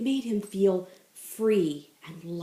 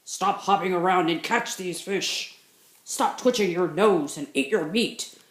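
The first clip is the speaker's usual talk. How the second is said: gruff bears. Acted. Other bears scolding Bunny Bear gruffly. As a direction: scold like bossy big bears. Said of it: "they growled".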